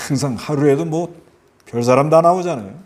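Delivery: ordinary talk, nothing marked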